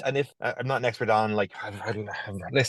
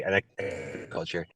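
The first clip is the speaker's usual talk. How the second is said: glitchy robotic audio; breaking up like a robot; 2 semitones lower, 7 dB quieter than usual. Real, not acted. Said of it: "you sound like a robot".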